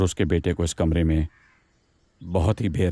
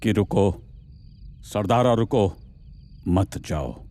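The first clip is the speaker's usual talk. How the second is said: "रुको" punched higher, then "मत जाओ" together; separated plea words; 4 semitones higher, slower than usual. Retold or imitated. Investigator explaining what Pushpa meant, रुको set apart. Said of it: "Pushpa बोल रही थी".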